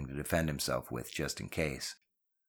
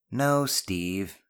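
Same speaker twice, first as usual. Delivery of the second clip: mildly dismissive correction; disdainful; 3 semitones higher than usual. Acted. Ben corrects Steve, dismissing the idea with disdain. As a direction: brush the idea aside with a touch of disdain. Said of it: "dismissing the idea with disdain".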